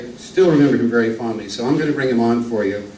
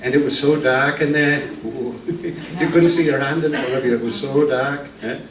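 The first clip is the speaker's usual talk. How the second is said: lightly voiced Archie Glenn; 4 semitones higher than usual. Introduced old northern comic telling jokes to the crowd, lightly voiced. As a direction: ease into a genial old music-hall comedian.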